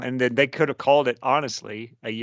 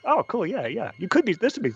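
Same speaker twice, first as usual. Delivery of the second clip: excited gushing; 8 semitones higher than usual. Retold or imitated. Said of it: "I was like".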